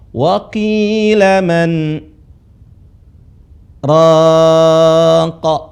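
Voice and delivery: Wa qila man, pause, raqa; pause after man. Shown as a demonstration. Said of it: "Sekali lagi saya baca". (jeda setelah man lalu raqa)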